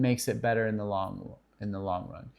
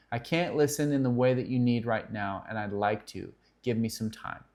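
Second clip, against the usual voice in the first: gentle refusal. Shown as a demonstration. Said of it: "That's a huge line".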